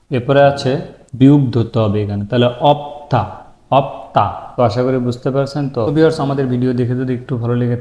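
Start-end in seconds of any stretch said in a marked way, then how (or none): 2.7-3.2 অপ্থা as two syllables, অপ then থা; teacher modelling অপ্থা; pronunciation demo. Shown as a demonstration. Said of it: "ধরে উচ্চারণ করতে হবে". 3.8-4.2 অপ্তা as two syllables, অপ then তা; teacher modelling অপ্তা; pronunciation demo. Shown as a demonstration. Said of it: "ধরে উচ্চারণ করতে হবে".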